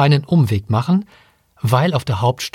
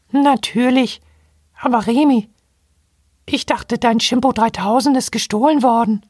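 much higher piping monkey voice; squeaky robot monkey; 10 semitones higher than usual. Acted. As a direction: chirp it like a tiny robot monkey.

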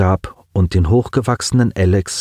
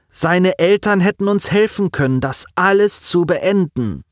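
put-on high, strained voice of a grieving boy; a young man fighting back tears; lightly voiced teen on the edge of crying; grieving boy Simon; 9 semitones higher than usual. A narrator's reading.

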